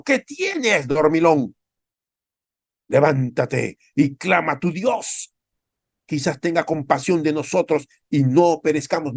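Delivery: high, urgent mock captain, then slowing on the plea; a ship's captain hauling Jonah out of sleep; captain scolding Jonah. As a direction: shake the sleeper awake and beg him to pray. Ship captain rebukes sleeping Jonah.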